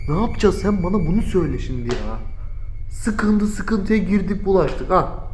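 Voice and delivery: nervous high hushed voice; shaken and scared. Real, not acted. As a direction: talk it over still rattled by fear.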